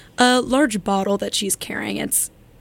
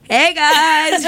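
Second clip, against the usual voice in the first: higher, louder party hello; cheery greeting; 7 semitones higher, 5 dB louder than usual. Retold or imitated. Friend turns up dancing in the club, mock excited greeting. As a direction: imitate a carefree friend calling out. Imitating friend's carefree arrival.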